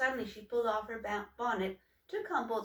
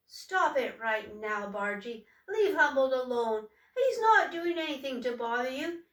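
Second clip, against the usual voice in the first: louder, firm, rising to higher; defending sister; 4 semitones higher, 7 dB louder than usual. Acted. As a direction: stand up to the bully. Sister defends brother from bully.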